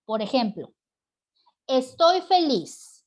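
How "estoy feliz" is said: exclamación aguda, fuerte y alargada; exclámalo con alegría, alto y despacio; exclamación feliz. Shown as a demonstration. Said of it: "y al exclamar o entonar". (exclamación alegre y entonada)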